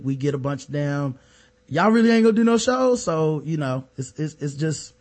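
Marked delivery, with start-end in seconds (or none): 1.7-3.0 mock complaint. Voicing complaining listeners.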